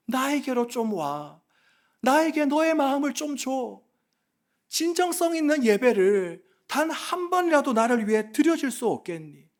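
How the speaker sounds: earnest appeal in God's words; pleading. Acted. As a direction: plead with restraint, asking for their heart. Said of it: "이렇게 주님은 우리를 향해 호소하고". (호소하듯 간곡하게)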